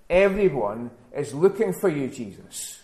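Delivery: gently chide, dropping off on the name; mild scolding. Acted. Disciples finding Jesus at prayer, mildly scolding. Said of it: "It's almost a scolding tone".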